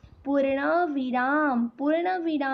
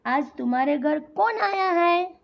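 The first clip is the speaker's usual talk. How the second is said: inquiring tune, "कौन आया है" raised; questioning tune; 3 semitones higher than usual. Shown as a demonstration. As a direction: ask with a lift on "कौन". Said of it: "ये एक प्रश्न पूछ रहे हो".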